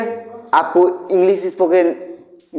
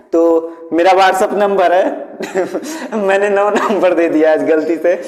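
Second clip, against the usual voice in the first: chuckling through the words; amused at his slip; laughing at own mistake. Real, not acted. Teacher laughing at his own wrong number.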